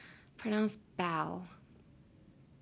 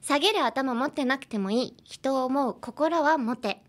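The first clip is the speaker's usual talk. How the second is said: phrase read aloud; 5 semitones higher, faster than usual. Shown as a demonstration. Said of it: "let's try out this week's phrase".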